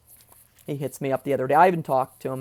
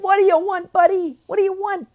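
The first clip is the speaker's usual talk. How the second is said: imitating dad; 11 semitones higher than usual. Dad voiced in a retold story.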